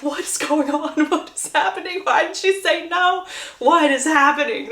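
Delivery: acted flustered disbelief from the pews; bewildered onlookers. Mother and daughter watching from their seat, acted bewilderment. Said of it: "being like".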